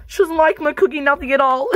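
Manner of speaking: half-crying mom complaint; mock crying. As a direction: whine it through pretend tears. Mom upset by daughter's insults.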